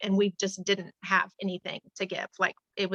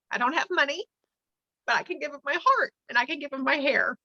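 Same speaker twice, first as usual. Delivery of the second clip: emotional, near tears; 4 semitones higher than usual. Real, not acted. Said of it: "I'm getting emotional".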